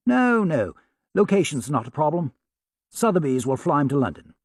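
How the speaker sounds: polite, lightly put-on posh English caller; an Englishman from Sotheby's, courteous and apologetic; English accent. Sam posing as a Sotheby's man, light English accent. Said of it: "spoke with an English accent".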